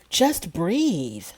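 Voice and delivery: mock fed-up sigh of a line; a touch of impatient exasperation; exasperated. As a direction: imitate a boyfriend fed up with her pain. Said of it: "he was just so exasperated with her".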